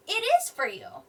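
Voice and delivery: "is" punched high, falling to "you"; emphatic answer. Shown as a demonstration. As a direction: give the answer, stressing "is". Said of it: "It's saying".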